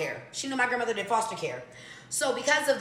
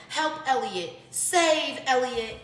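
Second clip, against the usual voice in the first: high, slow squawking parrot cry; 4 semitones higher, much slower than usual. Retold or imitated. Parrot under covered cage crying for help, high and drawn out. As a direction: play the caged parrot begging to be saved. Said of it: "he would say".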